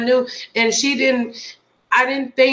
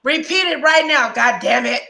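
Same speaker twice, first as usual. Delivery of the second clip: firm retold command, pitched up at first; retold stern order; 2 semitones higher than usual. Retelling how she made her friend repeat it, stern demand. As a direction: order it like a fed-up boss. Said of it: "I made you repeat it".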